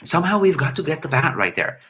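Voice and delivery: halting, stammering Goldblum imitation; lightly voiced Jeff Goldblum with broken pauses; a hint of Goldblum's stop-start delivery; Jeff Goldblum impression. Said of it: "let's see if I could do my Jeff Goldblum imitation".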